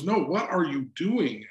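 "what are you doing" slow and deliberate; insistent retold question. Wife's pressed question retold.

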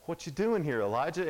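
a hint of God calling him out; God questioning. God confronting Elijah hiding in the cave, lightly voiced. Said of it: "And God's like".

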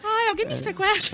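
slow sarcastic sigh of a wish; mock plea. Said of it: "joking wish".

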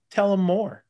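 high, loud egging-on shout; buddy egging on. Retold or imitated. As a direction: call it out, stirring the pot. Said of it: "my buddy says".

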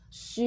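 "su" as one drawn-out syllable; mouth-shape demo. Shown as a demonstration. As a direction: model "su" slowly and clearly for a learner. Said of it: "你看妈咪的嘴型". (示范口型，把su拉长念清楚)

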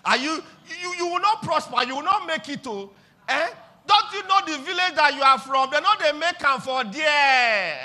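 lightly voiced scornful accuser; mock threat from a villager. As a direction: taunt them with a village curse. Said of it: "Somebody tells you and say".

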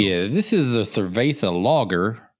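smooth seducer drawl; ladies' man voice. Shown as a demonstration. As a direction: slide through it like a ladies' man. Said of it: "I haven't tried this accent in a long time".

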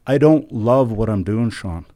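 mimicking Samantha. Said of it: "Samantha's response was".

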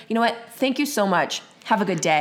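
a lightly put-on polite professional tone; serious conversation voice. Shown as a demonstration. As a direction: sound politely professional and a bit distant. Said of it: "I like to be like".

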